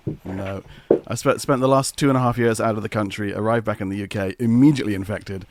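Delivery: rough hoarse voice, sick with a cold. Real, not acted. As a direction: talk through a raw, hoarse throat. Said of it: "I sound like I've been gargling broken glass".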